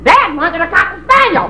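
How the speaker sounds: dummy voice. Acted. Ventriloquist dummy voice.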